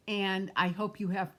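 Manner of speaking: talking through hiccups; interrupted by a hiccup. Real, not acted. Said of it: "I have the hiccups".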